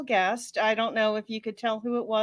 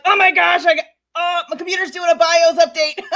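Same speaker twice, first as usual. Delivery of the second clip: panicked self-quote; 8 semitones higher, 9 dB louder than usual. Retold or imitated. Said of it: "And I'm like".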